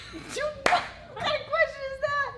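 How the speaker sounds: high, squeaky, sing-song rainbow character. Pretend. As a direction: bounce it up high like a cheerful rainbow. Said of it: "You're not talking like a rainbow".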